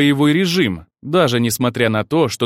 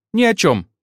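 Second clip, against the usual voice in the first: flustered denial; 8 semitones higher, 3 dB louder than usual. Acted. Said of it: "ответили почти синхронно".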